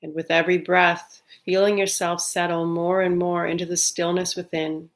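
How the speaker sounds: calm, unhurried meditation guide with long pauses; guided meditation. Real, not acted. Leading listeners to settle on the breath, calm guided meditation. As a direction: ease listeners into stillness, evenly and gently.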